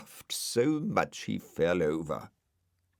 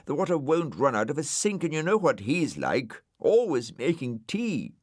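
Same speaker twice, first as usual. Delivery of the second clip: Brian voice; 7 semitones higher, 4 dB louder than usual. Acted. Brian character voice.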